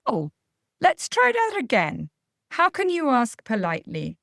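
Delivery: bright, high, encouraging prompt; light and encouraging. Shown as a demonstration. Parent prompting a child to ask politely, light and encouraging. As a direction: invite a retry with no sarcasm. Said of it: "We've got to keep it light, encouraging".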